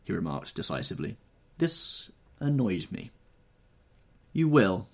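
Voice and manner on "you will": curt, clipped-off answer; short retort. A narrator's reading. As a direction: cut him off shortly. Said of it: "I answered shortly".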